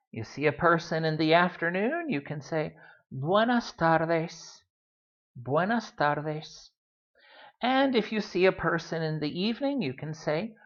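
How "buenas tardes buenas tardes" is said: 慢速示范; slow model phrase. Shown as a demonstration. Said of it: "teacher models the phrase".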